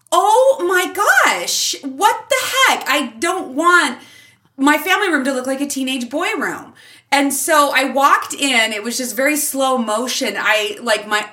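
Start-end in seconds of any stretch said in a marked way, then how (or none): 0.1-6.7 mock horror. Mom seeing hats on her wall, hammed-up horror. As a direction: play up the appalled reaction. Retells horror at redecorated room.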